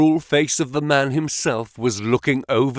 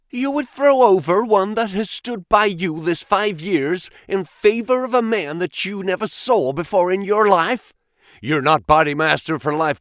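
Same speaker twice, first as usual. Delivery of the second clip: furious; 7 semitones higher than usual. Acted. Baldwin furiously challenges the boss.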